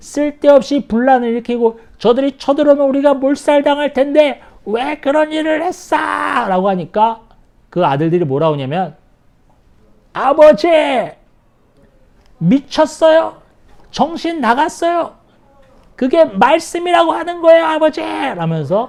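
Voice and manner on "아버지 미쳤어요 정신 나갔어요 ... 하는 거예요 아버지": high, explosive, incredulous furious outburst. Retelling sons exploding in rage at their father, mock-angry explosive outburst. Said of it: "아버지한테 엄청 지금 분노를 폭발하고 있는 거예요".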